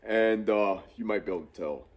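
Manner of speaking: blocked nose, stuffed up; stuffy nose. Real, not acted. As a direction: talk through a stuffed-up nose. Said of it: "I sound like I'm stuffed up".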